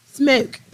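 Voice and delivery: "Smoke" said as "smelk"; odd pronunciation. Real, not acted. Calling on Smoke for a favor, "Smoke" as "smelk". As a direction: bend the vowel of "Smoke" to "smelk". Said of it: "You gotta say it like that?".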